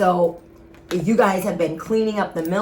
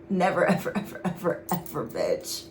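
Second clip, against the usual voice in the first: softer, whispered taunt; whispered never; 6 dB quieter than usual. Pretend. Reader whispers the ancestors' refusal to the enemies, softly. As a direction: hiss it out as a gleeful taunt.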